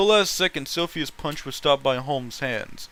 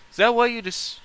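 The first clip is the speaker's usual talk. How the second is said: yelled; 7 semitones higher than usual. Acted. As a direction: hurl it at her, furious and high. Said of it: "Taylor yelled".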